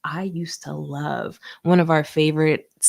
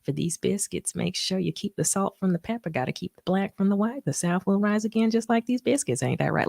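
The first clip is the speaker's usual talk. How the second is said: Paula Deen impression; 3 semitones higher than usual. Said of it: "She'd be like".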